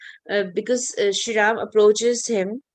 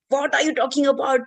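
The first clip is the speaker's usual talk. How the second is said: mildly indignant challenge, pitch a bit raised; Lakshmanji angry; 4 semitones higher than usual. Retold or imitated. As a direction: act out a touch of angry disbelief. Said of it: "again, Lakshmanji is angry".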